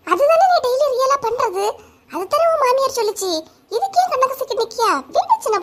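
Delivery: high, giggling tease; laughing mockery. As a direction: laugh at her while talking. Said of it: "உங்களுக்கு எல்லாம் சிரிப்பா இருக்கு".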